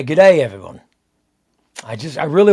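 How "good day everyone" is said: put-on a tryout Australian accent on a cheery greeting; a first stab at an Australian accent; attempted Australian accent. Streamer tries an Australian accent for his Aussie fans, lightly. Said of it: "so I could do the accent and say".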